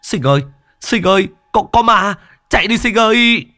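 high, loud panicked yell for a friend; terrified scream. Acted. Tuấn screams to Sinh after seeing the corpse, high terrified shout. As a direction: shriek the warning as if a corpse just rose. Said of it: "Thằng Tuấn hét lên".

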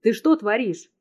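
furious shout. A narrator's reading. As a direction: shout the question at her. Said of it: "Срываюсь на крик".

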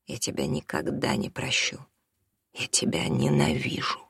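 low hushed whisper; whispered hatred. A narrator's reading. Son whispering his hatred to his father. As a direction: breathe the hatred out. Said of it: "тихо сказал Артём".

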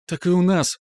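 little sister's high excited cry; lightly voiced girl exclaiming; exclaimed. A narrator's reading. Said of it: "воскликнула Настя".

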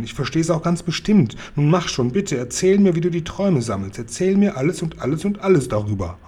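eager begging, pitch lifted; lightly wheedling, piling up the plea; insistent pleading. Acted. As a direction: press them to tell. Child keeps begging to hear.

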